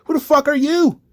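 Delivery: scornful put-down. Retold or imitated. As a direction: brush him off with contempt. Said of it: "And it's like".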